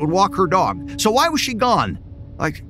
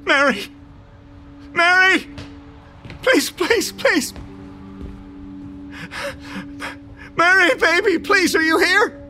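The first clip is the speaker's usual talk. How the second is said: much higher, near tears, begging; desperate pleading; 10 semitones higher than usual. Acted. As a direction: panic rising as everyone vanishes. Desperate pleading, all gone.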